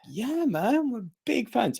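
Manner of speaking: high-pitched gushing mimicry; excited reply. Thrilled fan answering his favourite wrestler, high excited reply.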